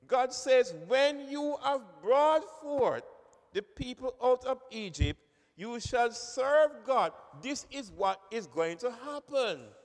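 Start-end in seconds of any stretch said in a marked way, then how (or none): 0.9-7.1 "When" hit high and loud, phrase slowed right down; stress on When. Shown as a demonstration. Preacher stressing God's certainty to congregation, "When" pushed loud and slow. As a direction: lean hard on "When", never an "if". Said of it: "God did not say, "If".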